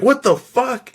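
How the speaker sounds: high-pitched incredulous quote; retold bewilderment. Retold bewilderment while being kicked.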